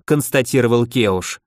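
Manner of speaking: usual speaking voice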